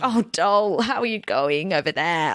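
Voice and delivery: mild imitation of a British dance teacher, friendly; British accent. British dance teacher calling to the struggling dancer, light British accent. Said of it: "A British accent".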